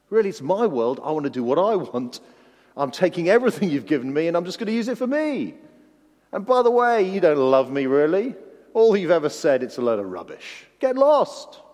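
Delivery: rising to a loud, high, scornful shout; defiant outburst. Acted. The rebellious heart telling God to get lost, defiant shout.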